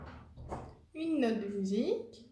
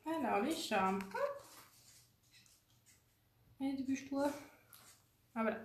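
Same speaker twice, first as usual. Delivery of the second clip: talking with a dry mouth; dry mouth, needs a drink; 6 dB quieter than usual. Real, not acted. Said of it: "j'ai plus de salive à force".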